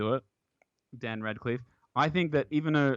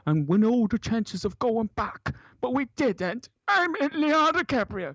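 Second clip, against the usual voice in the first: mock dramatic voiceover; 10 semitones higher than usual. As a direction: ham up a dramatic movie voiceover.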